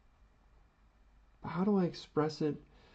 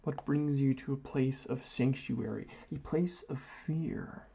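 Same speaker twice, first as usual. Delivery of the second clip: steady, assured delivery; confident. Shown as a demonstration. Host showing viewers how to sound confident. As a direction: sell every word like you own the room. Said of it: "That is how you sound confident".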